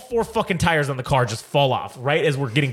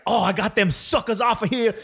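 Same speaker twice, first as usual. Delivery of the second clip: lightly put-on wrestler voice, higher; mild imitation of a crowing wrestler; Booker T; 5 semitones higher than usual. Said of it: "Booker T comes back and he's like".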